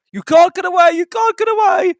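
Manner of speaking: high, loud taunting coaches; mocking laugh. A narrator's reading. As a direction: jeer at him, loud and high. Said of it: "laughed the coaches".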